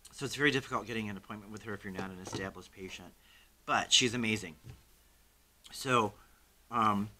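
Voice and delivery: talking around a hard candy; candy in the cheek while talking; mouth full. Real, not acted. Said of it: "I have a Werther's in my mouth".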